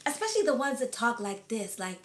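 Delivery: low, soft imitation of a deep American accent. Shown as a demonstration. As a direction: put on a deep, sexy American voice. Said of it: "they got that kinda deep".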